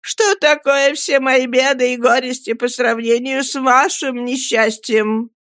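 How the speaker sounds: high, distressed woman's voice; high emotional entreaty; tearful pleading. A narrator's reading. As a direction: implore him tearfully, pitched well up. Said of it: "закричала вся в слезах миссис Гумидж".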